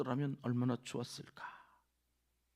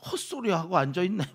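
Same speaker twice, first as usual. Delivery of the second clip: higher and much louder, sneering; scornful outburst; 7 semitones higher, 10 dB louder than usual. Retold or imitated. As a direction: spit it out with contempt. Zophar scorns Job. (소발이 욥을 비웃으며 크게 내뱉는 말)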